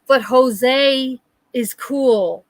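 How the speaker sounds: very slow, lightly voiced drunk; imitated drunken insistence; drunk brother. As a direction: drag it out like a hammered man. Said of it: "He can barely speak. He is so hammered".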